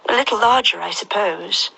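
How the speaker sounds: put-on a polite young girl; Alice voice. Alice answers caterpillar.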